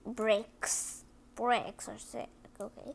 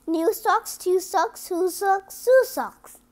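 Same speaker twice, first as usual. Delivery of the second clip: higher, louder, rising chant; building excitement; 6 semitones higher, 7 dB louder than usual. Acted. Reader building excitement toward the end. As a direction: build it up word by word.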